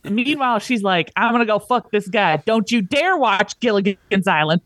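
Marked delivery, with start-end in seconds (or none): 1.2-4.6 lightly put-on Southern accent; hint of hammed-up Southern accent; mock Southern accent. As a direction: imitate a scolding wife with a Southern twang. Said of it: "I keep making them Southern".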